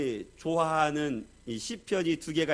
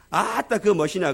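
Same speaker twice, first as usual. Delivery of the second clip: Jeolla dialect retort; 2 semitones higher, 3 dB louder than usual. Retold or imitated. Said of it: "전라도 사람이 씩씩거리면서".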